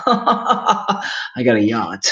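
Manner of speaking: put-on slow, laughing rich-kid brag; smug preppy rich guy. Streamer mocking a nineties preppy film jock, smug and laughing. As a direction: lord it over them, chuckling. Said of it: "preppy guys in those nineties films".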